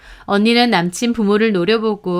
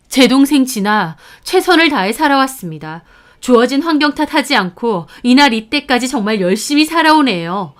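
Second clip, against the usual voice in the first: firm indignant defense climbing to a loud demand; loud protest; 3 semitones higher, 5 dB louder than usual. Acted. Sister standing up for her sibling, loud indignant protest. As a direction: defend her, ending in a raised-voice challenge. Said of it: "큰 소리로 따졌고".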